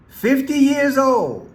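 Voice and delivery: slow, drawn-out mock announcement; mock solemn. Host mocking the prime minister's anniversary speech, slow and grand. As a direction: draw out the years like a grand toast.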